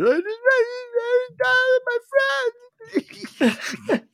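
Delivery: very high, wailing mock sob; mock sobbing girl. Mechanic mocking the daughter crying over the car, high mock wail. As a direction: ham up a teenage girl's crying. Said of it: "I heard her sobbing".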